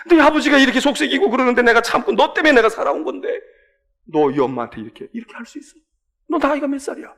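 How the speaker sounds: a mother's reproach to her son; aggrieved mother. Acted. Preacher voices mother scolding son.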